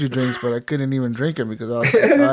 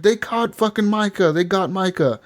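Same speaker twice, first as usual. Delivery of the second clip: higher mock-panicked report; freaked out; 6 semitones higher than usual. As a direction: imitate someone bursting in with bad news. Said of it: "he's screaming, he's all freaked out".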